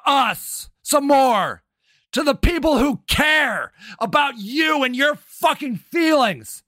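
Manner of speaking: shouting insults in real anger; real furious tirade. Real, not acted. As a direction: tear into him without a breath. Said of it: "got that out of my system".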